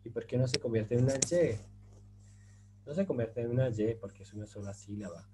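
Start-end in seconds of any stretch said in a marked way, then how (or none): 0.0-1.6 imitating students. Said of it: "Ahora ustedes me van a decir".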